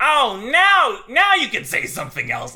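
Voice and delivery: put-on, very loud, booming, swooping sing-song, long oh. Retelling what the person next to them said, imitating a very loud remark. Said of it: "goes very loudly".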